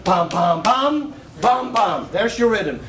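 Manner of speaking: ordinary delivery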